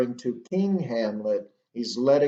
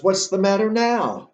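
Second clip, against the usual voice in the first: high-pitched acted sarcasm; sarcastic; 7 semitones higher, 4 dB louder than usual. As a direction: toss the question back with bitter sarcasm. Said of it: "You can hear the sarcasm in his voice here".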